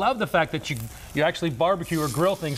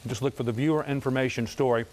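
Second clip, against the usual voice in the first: mouth full. Real, not acted. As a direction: still chewing while talking. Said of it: "Yes, I'm still chewing".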